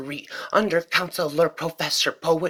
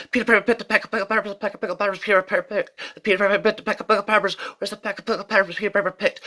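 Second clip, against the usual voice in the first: fast tongue twister; 3 semitones higher, much faster than usual. Shown as a demonstration. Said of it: "tongue twisters of the infinite speed".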